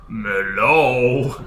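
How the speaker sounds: tiny tinkling fairy voice; sing-song little fairy call. Pretend. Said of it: "Maybe I'll try my fairy's voice".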